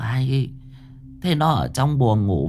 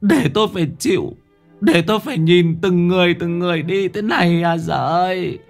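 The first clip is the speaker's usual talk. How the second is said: crying lament; 10 semitones higher than usual. A narrator's reading. Old woman laments to heaven over her family's fate, crying. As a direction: wail to heaven, sobbing. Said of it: "Bà cụ mếu máo".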